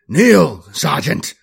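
loud, high barked command; barked order. A narrator's reading. Captain ordering his sergeant to kneel, barked. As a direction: bark it out as an order. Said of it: "he barked".

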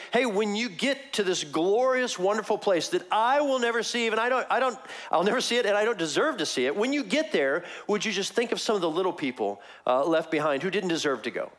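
high, earnest pleading; pleading thief. Retold or imitated. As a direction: beg humbly, lifted up high. Thief voiced pleading to Jesus.

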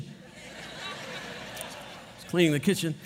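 "cleaning" drawn out in a slow whisper, every word stretched. Shown as a demonstration. Pastor replaying the quiet kitchen moment for his congregation, slow whisper. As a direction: breathe the line out slowly, almost no voice.

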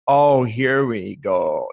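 slow, weary mock "here we go"; sceptical sigh. The sceptical editor hearing about guardian angels, slow and weary. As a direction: roll your eyes through it, dragging it out.

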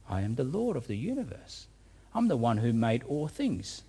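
a hint of Jesus asking his doubting disciple; quiet searching voice of the Lord; Jesus questioning. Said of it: "Jesus is questioning his disciple".

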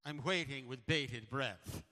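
put-on slow, lilting Scottish-accented line; imitating the Scottish clerk, slow and lilting; Scottish clerk quote. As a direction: deliver it slowly like the Scottish clerk. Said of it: "she's got this accent".

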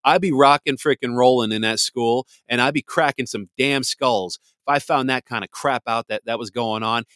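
loud, furious outburst; angry rant. Real, not acted. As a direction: boil over about the story. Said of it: "That story pisses me off".

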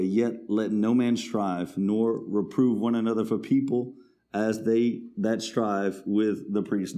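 measured, declaiming Bible reading; scripture reading. Acted. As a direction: read the verse like a pulpit proclamation. Reads scripture aloud.

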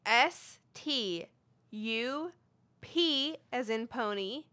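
slow letter-by-letter spelling. Shown as a demonstration. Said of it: "you spell that for me?".

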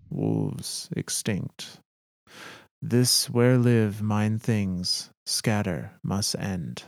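lightly voiced alien captain, slow broken English; solemn, halting words with weight on each phrase; Mithrax. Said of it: "The captain turns".

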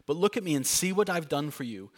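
a touch of a loving father coaxing; gentle God voice. Acted. God gently holding your face, lightly tender and reassuring. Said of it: "who gently takes your face and says".

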